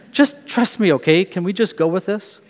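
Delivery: a dad dodging an argument, coaxing up high; parent brushing off. Retold or imitated. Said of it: "I've said it to my kids".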